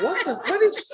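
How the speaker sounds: high, laughing disbelief; mock exasperation through laughter. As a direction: imitate the sponsor cracking up. Sponsor's disbelieving reaction.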